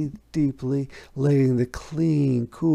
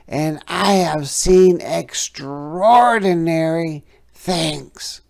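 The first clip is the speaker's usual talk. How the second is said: higher, louder frog voice fading to a whisper on things; frog, hushing; 6 semitones higher, 7 dB louder than usual. A narrator's reading. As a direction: build wonder, then whisper the last word. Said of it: "said the frog".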